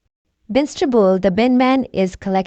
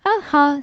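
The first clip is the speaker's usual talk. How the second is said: laugh; 6 semitones higher than usual. A narrator's reading. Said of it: "says Miss Rabbit".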